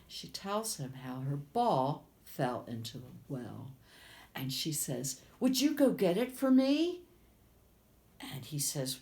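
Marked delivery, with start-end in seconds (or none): 5.4-7.0 1 high pleading princess. Acted. Princess asks frog.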